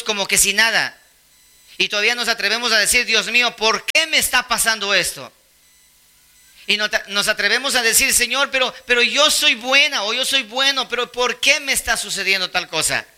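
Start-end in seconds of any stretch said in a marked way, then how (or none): 3.0-5.3 queja en tono algo agudo; queja imitada. Retold or imitated. Imita al creyente que se queja. 8.1-13.0 queja aguda de quien se cree bueno; protesta imitada. Retold or imitated.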